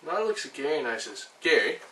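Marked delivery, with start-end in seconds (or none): 1.4-1.8 calling out. Acted. Calls out at Gary on phone.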